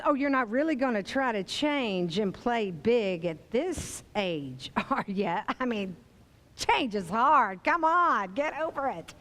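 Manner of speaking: a hint of a sneering grande dame; Betty Davis. Critic voice scoffs at changing late, mildly mocking. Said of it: "And when Betty says".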